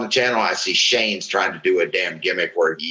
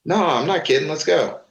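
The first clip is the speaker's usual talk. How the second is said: higher, insistent quoted dare; imitating the challenge; 7 semitones higher than usual. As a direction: push the dare up in pitch, no joking. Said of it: "he goes".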